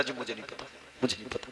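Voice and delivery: sheepish feigned innocence; mock meek denial. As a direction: play dumb softly. Thief feigns innocence to police.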